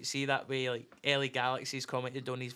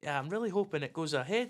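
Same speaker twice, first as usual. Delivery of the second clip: put-on a light, half-hearted go at a Denny accent; a quick, shy try at a Denny accent; attempted Denny accent; 3 semitones higher than usual. Pushed by his mates, a half-hearted Denny accent. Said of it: "go, try it".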